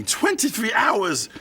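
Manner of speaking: comic outrage, dragged out; exasperated exclamation. Real, not acted. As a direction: stretch it out in comic disbelief. Exasperated recollection of the long flight.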